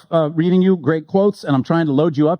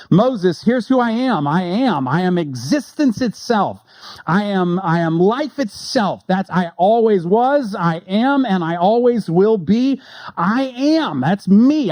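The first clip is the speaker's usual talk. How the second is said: raised, slow, grand declaration; God to Moses; 4 semitones higher, slower than usual. Acted. God declaring his name to Moses, raised and grand.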